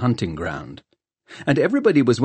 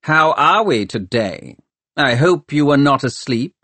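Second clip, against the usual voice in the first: cheery; 6 semitones higher, 4 dB louder than usual. Acted. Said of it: "sounding almost cheery".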